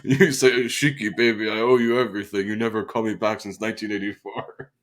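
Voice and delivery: loud mock wrestler tirade; Iron Sheik impression. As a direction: imitate an insult-slinging wrestler. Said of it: "as Iron Sheik would say".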